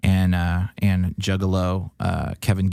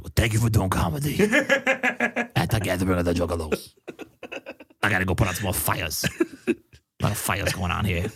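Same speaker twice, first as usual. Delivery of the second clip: put-on Michigan accent with laughter breaking through. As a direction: impersonate him in a broad Michigan accent. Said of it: "a very classic Michigan accent".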